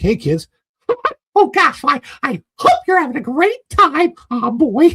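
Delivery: very high, sing-song, swooping character voice. Recalling lending a voice to a silent park character greeting kids, character voice. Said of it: "I borrowed it from him".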